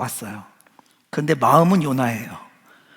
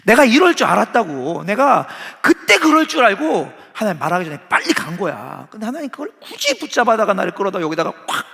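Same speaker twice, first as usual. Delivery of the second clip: angry complaint; 2 semitones higher, 3 dB louder than usual. Retold or imitated. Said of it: "이렇게 말하고 있는 거예요".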